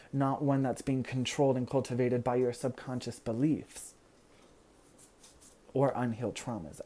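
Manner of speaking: running out of breath; talking till out of air. Real, not acted. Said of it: "Whew, I'm out of breath".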